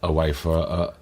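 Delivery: halting, repeated false starts; real hesitant stutter. Real, not acted. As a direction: stumble over the small words. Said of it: "I don't know why I'm stuttering".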